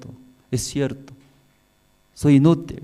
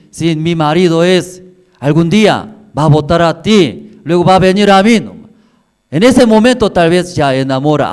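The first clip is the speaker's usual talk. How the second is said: higher, louder mocking taunts; taunting rival; 4 semitones higher, 6 dB louder than usual. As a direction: jeer at her childlessness with rising scorn.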